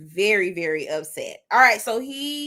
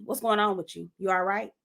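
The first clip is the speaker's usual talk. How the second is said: lightly voiced grandma, softer; checking-up grandma; 2 semitones lower, 7 dB quieter, faster than usual. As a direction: imitate a watchful grandma's quiet questioning. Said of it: "my grandma on me".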